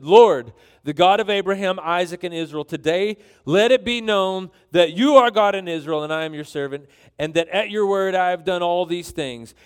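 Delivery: loud, emphatic plea to God; acted prophet's public prayer, projected; fervent prayer. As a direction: call out boldly to the Lord.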